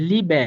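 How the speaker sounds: লিবে with the last vowel a light, open "eh"; careful model word লিবে, final e like এ. Shown as a demonstration. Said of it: "এ এর মতো করে উচ্চারণ করব".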